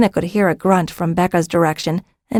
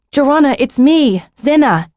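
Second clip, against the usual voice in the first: higher-pitched call to someone lost; 7 semitones higher, 4 dB louder than usual. A narrator's reading. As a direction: call out so she knows you. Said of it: "Zinna called".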